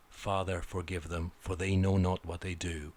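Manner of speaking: quiet, reverent Bible reading; solemn scripture quote. Retold or imitated. Reciting the original Bible line, quiet and reverent. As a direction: intone it like scripture, hushed. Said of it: "instead of".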